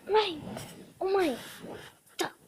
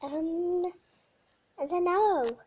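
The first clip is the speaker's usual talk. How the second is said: voicing the dog's thoughts; 3 dB quieter than usual. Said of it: "saying stuff of what I feel like she thinks".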